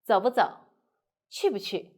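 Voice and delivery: 走不走 and 去不去 joined, 不 short and light; light neutral middle. Shown as a demonstration. Teacher giving rhythm examples, 走不走 and 去不去 with light 不. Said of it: "saying Mandarin just like singing a song".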